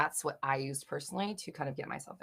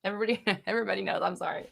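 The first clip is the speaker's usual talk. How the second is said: laughing; 3 semitones higher, much faster than usual. Real, not acted. Laughing at her own slip.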